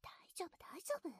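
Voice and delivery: soft close whisper; breathy secret whisper. Acted.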